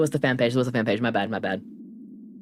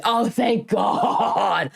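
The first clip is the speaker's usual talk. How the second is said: laughing exclamation; 8 semitones higher, much slower than usual. Real, not acted. Sudden relieved outburst.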